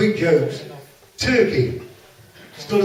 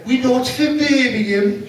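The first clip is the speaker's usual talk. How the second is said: mock-indignant coach party, slower and higher; indignant group retort; 7 semitones higher, 3 dB louder, slower than usual. Coach party correcting the comedian, mildly indignant. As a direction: protest in unison, drawn out. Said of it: "they all say together".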